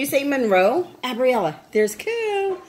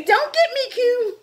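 voicing the baby; 10 semitones higher than usual.

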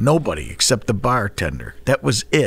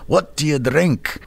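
put-on Scottish accent; 4 semitones higher than usual. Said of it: "Guy had a Scottish accent".

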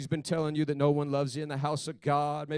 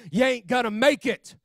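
higher-pitched mock devil taunt; raised, insistent imitation of the devil; devil's taunt; 8 semitones higher, 5 dB louder than usual. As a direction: hammer it out as the accusing devil. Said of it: "the devil had been lying to me".

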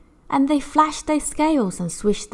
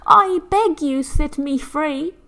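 high, slow plea, louder at first; begging; 8 semitones higher, 4 dB louder, slower than usual. Acted. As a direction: beg again, drawing it out. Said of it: "and again she said".

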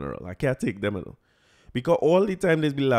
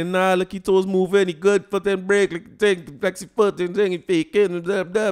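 higher and louder, a crowd of mock doctors; teammates playing doctor; 6 semitones higher, 5 dB louder than usual. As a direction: rattle off a know-it-all diagnosis. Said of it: "Everybody turn doctor".

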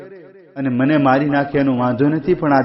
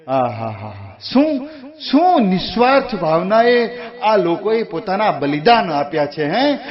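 awed exclamation; 3 semitones higher than usual. Real, not acted. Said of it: "narrator marvels at sacrifice".

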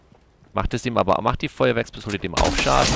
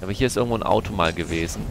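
fast line with "gewesen" leaned on at the end; stress on gewesen; faster than usual. Real, not acted. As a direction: rush through, then land hard on "gewesen". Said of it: "die Betonung liegt auf gewesen". (schnell gesprochen, Betonung deutlich auf "gewesen")

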